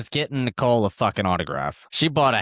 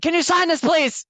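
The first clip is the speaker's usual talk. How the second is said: much higher, sweet begging plea; pleading request; 4 dB louder than usual. Retold or imitated. Fan to Josh Berry, high sweet pleading. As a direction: plead for the autograph, all sugar.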